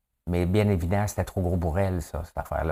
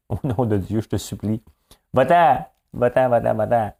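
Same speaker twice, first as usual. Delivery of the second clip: mock pleading shout; 3 semitones higher, 4 dB louder than usual. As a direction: beg him to leave, the push weakening each time. (supplication moqueuse, de plus en plus faible)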